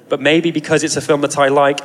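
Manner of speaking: a dry, knowing little jab; hint of sarcasm. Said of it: "and then with a hint of sarcasm".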